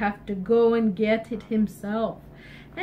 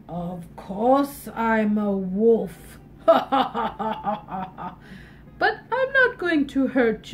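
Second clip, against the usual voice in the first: wolf voice. Acted. Wolf's voice.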